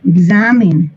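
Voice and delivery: "Examine" as ig-ZA-min, weak ending; teacher's model "Examine" with a relaxed last vowel; stress second syllable. Shown as a demonstration. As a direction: stress the middle of "Examine", reduce "mine" to "min". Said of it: "Y lo mismo pasa con esta".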